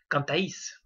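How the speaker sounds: Cantaís with "TA" stressed, gliding into the I; weight the second A of Cantaís, I gliding after. Shown as a demonstration. Teacher showing a diphthong's stressed strong vowel, stress on A. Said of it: "Vous avez entendu cantaís".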